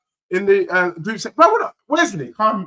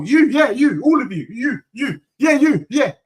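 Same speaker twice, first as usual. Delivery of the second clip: raised, higher chant of you, yeah at the chat; taunting call-out; 4 semitones higher than usual. Real, not acted. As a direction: jab the words out at the crowd. Taunting the Arsenal fans in chat.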